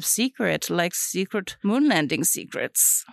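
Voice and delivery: cheeky German-accented whisper of secrets. Real, not acted. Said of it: "I don't know why I sound German when I get cheeky".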